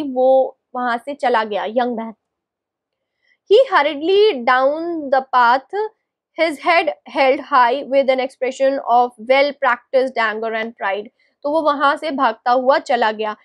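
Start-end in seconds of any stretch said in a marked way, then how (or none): 3.5-11.1 slow, drawn-out read-aloud; story narration. A narrator's reading. Narrator describes the young man leaving, slow story narration. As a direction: read it slowly, phrase by phrase.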